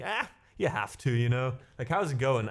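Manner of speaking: "Ah" thrown up high, then eased down; a hammed-up high sigh opening the typical German reply; a mock German shrug tossed off high and lively; exaggerated German shrug. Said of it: "that's very typical German".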